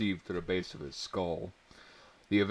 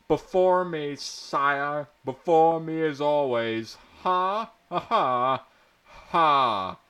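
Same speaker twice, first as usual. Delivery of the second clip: much higher, loud gloating cackle; cackling noble; 6 semitones higher, 7 dB louder, slower than usual. Acted. Noble gloats over the fallen hero, cackling high. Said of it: "Nobly cackled".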